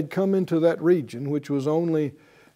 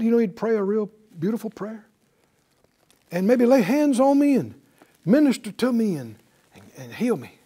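disappointed Naaman; 5 semitones higher than usual. Retold or imitated. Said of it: "And he said".

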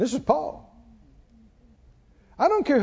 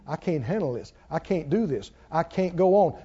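hopeless despair; 7 semitones lower, 7 dB quieter than usual. Retold or imitated. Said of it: "they keep talking about".

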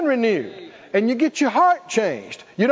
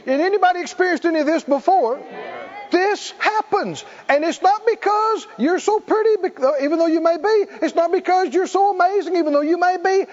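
fervent preaching; 8 semitones higher than usual. Real, not acted. Preacher heats up.

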